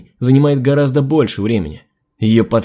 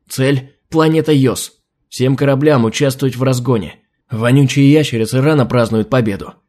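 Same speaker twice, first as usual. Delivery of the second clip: furious commands. Acted. Enraged admiral gives orders.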